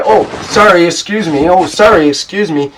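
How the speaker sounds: high, loud mock "Oh, sorry, excuse me"; hammed-up apologizing. Two Canadians bumping in a doorway, loud high mock apologies. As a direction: overdo the polite apology, bumping into someone. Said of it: "they bump into each other and they say".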